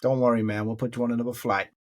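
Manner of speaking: imitated easygoing American official; American accent. American official reassuring a stranded traveller, American accent. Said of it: "Sorry about my American accent".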